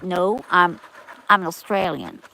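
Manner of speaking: imitated American accent; Australian lightly mimicking an American accent; mock American accent. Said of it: "they've got an American accent".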